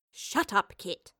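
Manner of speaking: quick aside of reproof; chiding. Acted. Professor silences Kit before the creature, chiding. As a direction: scold under your breath. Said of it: "chided the professor".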